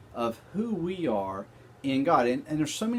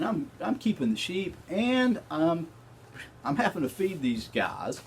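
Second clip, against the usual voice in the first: boastful David. Pretend. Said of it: "do you think it kinda went like this?".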